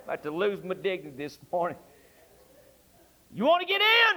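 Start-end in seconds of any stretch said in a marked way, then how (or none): 3.3-4.2 high, loud call out; shouted appeal. Acted. Preacher calling to the congregation, shouted. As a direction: call out to the whole room.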